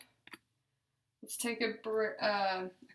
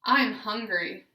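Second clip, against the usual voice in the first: loud, clear practice phrases with questions rising; therapy drill phrases, loud and deliberate; deliberate, intentful; 8 dB louder than usual. Shown as a demonstration. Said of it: "use intent when speaking".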